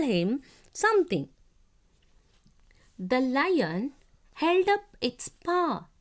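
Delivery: slow, deliberate textbook reading with long pauses; careful classroom read-aloud; reading to children. A narrator's reading. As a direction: read it out phrase by phrase for young pupils. Reads lesson aloud to children.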